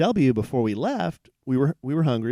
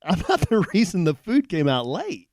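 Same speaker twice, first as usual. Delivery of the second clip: man retelling how he scolded a curt server, indignant and raised; indignant retort; 7 semitones higher than usual. Retold or imitated. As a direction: push back hard at the rude waitress. Telling server off.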